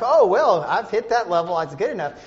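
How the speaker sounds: breezy, mocking self-excuse; mock complacency. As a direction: imitate someone content with the bare minimum. Mimics a complacent attitude.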